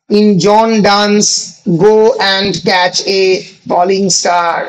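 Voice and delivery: very slow, stretched phrases with gaps; unhurried, drawn-out reading, pausing often; slow dictation. Real, not acted. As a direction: dictate it chunk by chunk for writing down. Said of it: "আস্তে আস্তেই বলছি".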